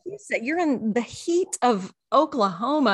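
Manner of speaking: high, outraged mock rant; high indignant rant at the dress code; indignant quote. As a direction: act baffled and fed up with the rule. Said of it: "we were like".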